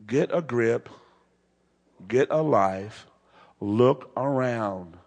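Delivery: slowed, drawn-out scolding; mock exasperation. Jairus telling Jesus, slow and exasperated. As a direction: spell it out slowly like he's dense. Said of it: "He's saying".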